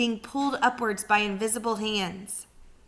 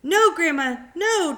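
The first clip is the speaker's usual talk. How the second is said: higher, much louder urgent shout; calling back; 8 semitones higher, 9 dB louder than usual. Acted. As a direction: yell up at her to stop. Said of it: "George called back".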